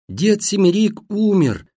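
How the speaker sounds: high, drawn cry into a deaf ear; high, penetrating announcement; thin piercing shout. A narrator's reading. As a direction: shout the news shrilly so he hears. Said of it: "прежним способом прокричала мать".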